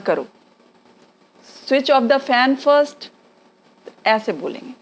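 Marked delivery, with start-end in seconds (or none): 1.7-3.1 very slow, every word separate; slow teaching demo. Shown as a demonstration. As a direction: dictate it slowly to a pupil. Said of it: "हम बच्चों को क्या बोलते हैं".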